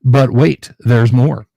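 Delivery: booming TV pitchman; infomercial announcer. Acted. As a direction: announce it loudly like a sales pitch. Mock sales pitch while unboxing gift.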